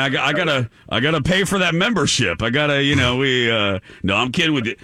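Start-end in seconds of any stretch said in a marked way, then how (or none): 0.0-3.5 put-on manly caller, pitched up. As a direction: play an eager prank caller in a raised manly voice. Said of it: "that was my manly voice".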